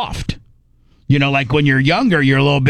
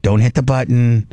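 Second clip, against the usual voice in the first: slow insistent self warning; 2 semitones lower than usual. Retold or imitated. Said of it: "conversation with myself".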